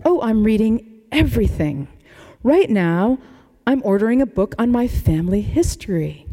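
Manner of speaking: lightly imitating an old Boston Brahmin accent; a hint of old money Boston Brahmin accent. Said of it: "In a Brahmin accent that should be bottled".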